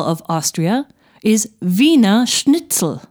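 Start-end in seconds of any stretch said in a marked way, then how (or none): 1.6-3.0 "Wiener Schnitzel" with veener at the start; German pronunciation. Shown as a demonstration. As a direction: say "Wiener Schnitzel" as VEE-ner SHNIT-sel. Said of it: "is pronounced E".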